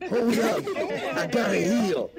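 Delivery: lightly put-on game character voice, calling out; Coach. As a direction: call out like a hurried teammate, pitch lifted slightly. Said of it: "that's my impression of the coach".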